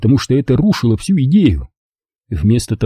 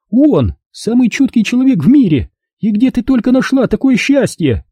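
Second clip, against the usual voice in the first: sarcastic; 12 semitones higher than usual. Acted. Mother's sarcasm.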